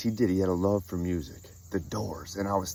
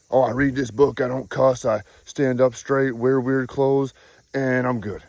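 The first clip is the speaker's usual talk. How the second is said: mock pious believer; 5 semitones higher, 4 dB louder than usual. Mocking the self-righteous believer.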